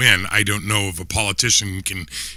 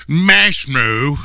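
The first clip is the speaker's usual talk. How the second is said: put-on Australian accent; 5 semitones higher, 4 dB louder than usual. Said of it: "that didn't even sound Australian".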